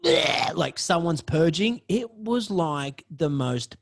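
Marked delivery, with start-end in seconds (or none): 0.0-0.5 mild mock retch. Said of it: "But it's not like".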